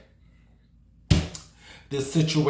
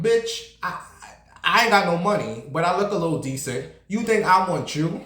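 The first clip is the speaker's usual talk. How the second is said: higher, incredulous sass; indignant disbelief; 5 semitones higher than usual. Real, not acted. About men who assume she wants them, higher indignant sass. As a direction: scoff at the very idea. Indignant rant at bum man.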